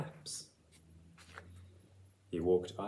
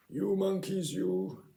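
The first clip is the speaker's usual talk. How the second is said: scolding peddler; 8 semitones higher, 4 dB louder than usual. Acted. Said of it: "shaking a finger at them".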